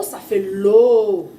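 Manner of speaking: very slow, drawn-out la; la sounded out slowly; slow syllable demo. Shown as a demonstration. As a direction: stretch ça fait la for a child. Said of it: "Le O".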